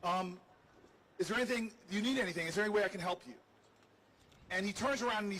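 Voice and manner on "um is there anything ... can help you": softened tone. Retold or imitated. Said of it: "I softened my tone".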